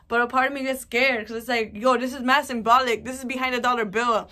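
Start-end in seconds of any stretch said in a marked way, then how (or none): 1.8-4.3 raised excited voice. Real, not acted. Vlogger urgently telling viewers about the dollar bill symbol, raised voice. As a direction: let it burst out, nearly shouting. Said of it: "I screamed at you guys".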